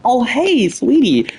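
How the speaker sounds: lightly acted husband greeting his sweetie. Husband to his wife, sweet greeting.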